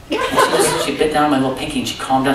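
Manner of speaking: chuckling through the memory; laughing. Real, not acted. Tender dad laughing while telling the congregation about his daughter. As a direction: let the laugh leak into the words. Laughing at baby biting pinky.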